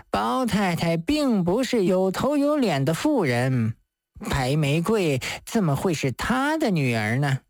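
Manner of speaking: put-on lightly slurred drunken talk; a touch of thick-tongued tipsiness; stiff-tongued drunk. Drunk man dismissing the mother to the judge, stiff-tongued. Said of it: "舌头僵硬地说".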